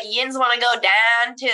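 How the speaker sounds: light Pittsburgh dialect demo; Pittsburgh accent. Shown as a demonstration. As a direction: show off Pittsburgh yinzer talk. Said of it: "People from Pittsburgh say "yins".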